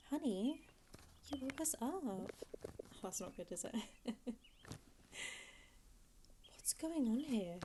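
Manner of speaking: lightly voiced doting mum; a hint of a fussy mother. Mum checking on her kid at night, lightly voiced. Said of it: "I've got a really good mum voice".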